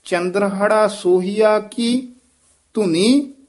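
ਸੋਹੀਆ with a full long ho, not hu; slow model read, ਸੋਹੀਆ with long o; long vowel in sohia. Shown as a demonstration. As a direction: stretch the ਹੋ in ਸੋਹੀਆ fully. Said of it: "ਪੂਰਾ ਦੀਰਘ ਲਾ ਕੇ ਸੋਹੀਆ".

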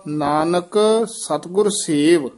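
ਨਾਨਕ ਸਤਿਗੁਰ ਸੇਵ closed off with a rest after ਸੇਵ; pause after phrase. Shown as a demonstration. Teacher marking the verse break, pause after ਸੇਵ. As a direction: lengthen ਸੇਵ and stop there. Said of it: "ਇੱਥੇ ਵਿਸਰਾਮ ਹੈ।".

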